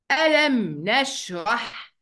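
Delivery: slow melodic recitation; Quran recitation. Acted. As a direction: recite ألم نشرح slowly. Recites the surah.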